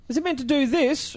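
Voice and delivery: high, puzzled question; genuinely baffled by the camera. Retold or imitated. Showing his mate the camera, high and puzzled.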